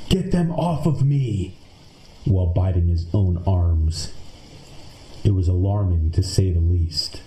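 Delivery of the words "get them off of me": a husband's panicked sleep scream, lightly performed; mock scream. Husband screaming in his sleep, mock panicked high yell. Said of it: "my husband repeatedly screamed".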